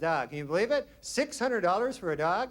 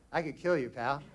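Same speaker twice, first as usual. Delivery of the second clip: low, softer tough-guy growl of a dog; pit bull; 5 semitones lower, 4 dB quieter than usual. Retold or imitated. Pit bull threatening owner, lower and softer tough voice. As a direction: menace him quietly like a thug. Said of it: "Pitbull go".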